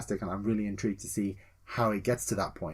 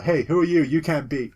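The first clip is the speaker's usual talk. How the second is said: raised-voice imitation of a guard; mock guard challenge; 5 semitones higher, 6 dB louder than usual. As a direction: challenge an intruder, half in play. Armed guards challenging the player.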